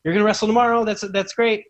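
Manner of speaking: high, stammering fan babble; acting out starstruck rambling; flustered, freaking out. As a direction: gush nervously, tripping over the words. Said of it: "I'm freaking out".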